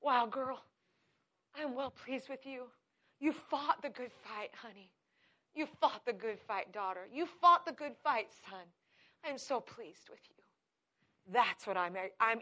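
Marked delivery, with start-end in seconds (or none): 0.0-10.4 God's tender praise. Pretend. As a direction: speak like a loving father praising a child. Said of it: "I want my God to say".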